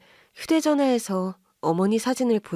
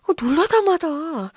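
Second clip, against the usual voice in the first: still stunned; 8 semitones higher than usual. Acted. Husband admits his shock.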